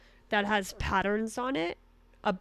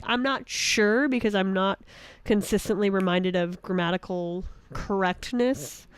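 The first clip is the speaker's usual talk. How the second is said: ordinary delivery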